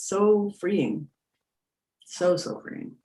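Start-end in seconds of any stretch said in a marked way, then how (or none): 2.0-3.0 breathy whisper, trailing off. Real, not acted. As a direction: breathe it out softly. Soft afterthought on freeing.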